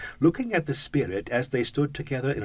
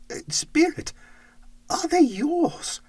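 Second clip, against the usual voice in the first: put-on higher, slow, wondering old miser; old Scrooge voice; 4 dB louder, slower than usual. Scrooge asks the ghost about its short life, higher old voice. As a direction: ask it like an aged, anxious miser.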